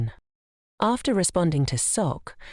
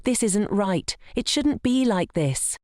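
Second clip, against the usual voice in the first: yelling; 5 semitones higher than usual. Acted.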